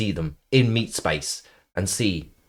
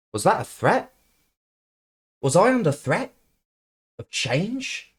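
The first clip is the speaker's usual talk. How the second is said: higher, rising mock indignation; mock alarm; 10 semitones higher than usual. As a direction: pretend to be shocked by a threat. Mock alarm at being changed.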